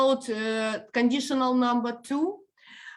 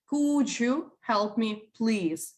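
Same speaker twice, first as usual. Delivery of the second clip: slow, gentle "Could you help me, please?"; polite request; slower than usual. Shown as a demonstration. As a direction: ask kindly and take your time. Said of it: "you do sound polite".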